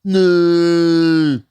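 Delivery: high, strained panicked cries of no. Retold or imitated. Friend trapped in deflated bouncy house, panicked high cries. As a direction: plead no like you're trapped and panicking. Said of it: "making a noise that sounded like a cow giving birth".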